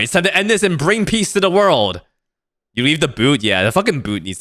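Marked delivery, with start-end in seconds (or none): 0.0-2.0 proper heroic declaration, lifted and full; heroic retake. Acted. Streamer correcting the hero's line, mild heroic lift. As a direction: say it like a hero this time. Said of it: "Oh, sorry".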